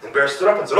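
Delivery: plain reading voice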